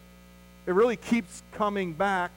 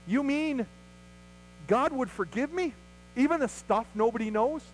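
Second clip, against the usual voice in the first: incredulous wonder; 3 semitones higher than usual. Retold or imitated. Listener amazed at forgiveness.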